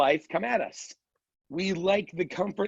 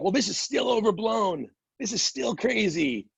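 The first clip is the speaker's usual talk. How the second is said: slightly raised voice imitating stubborn sceptics; mock dismissiveness; 5 semitones higher than usual. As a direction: mimic someone insisting it is all overblown. Imitates people still dismissing the virus.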